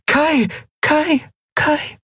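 high repeated calling, fading; repeated calls. Acted. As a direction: call out again and again. Calling down echoing stairwell. (wiederholtes Rufen, verhallend)

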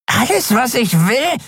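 high, needling whine; creepy dealer. A narrator's reading. Dealer reaches for Andriel's shoulder, high and needling. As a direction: keep it pitched high and insistent.

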